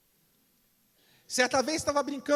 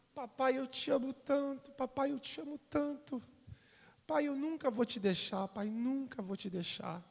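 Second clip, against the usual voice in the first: put-on tender child; 6 dB quieter than usual. Small son hugs his father.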